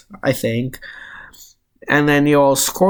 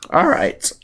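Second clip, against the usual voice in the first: sudden squeaky crack mid-word; 7 semitones higher than usual. Real, not acted. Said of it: "Little bit of a voice screech, voice crack there".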